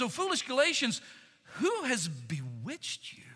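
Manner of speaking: a hint of Paul weeping over them; near weeping. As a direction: let grief creep in on bewitched. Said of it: "You can almost hear the emotion in Paul's voice".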